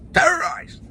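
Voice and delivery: "Terrorized." squeaked very high and loud; mock terrified squeal. Shown as a demonstration. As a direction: jump way up in pitch on "Terrorized.". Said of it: "repeated, mock terror".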